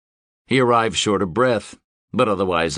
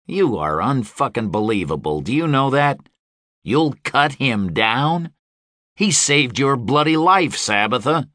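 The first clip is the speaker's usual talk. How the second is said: louder and higher, indignant; angry outburst; 5 semitones higher, 3 dB louder than usual. Acted. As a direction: rail at her in disbelief. Gabe angry at Deva.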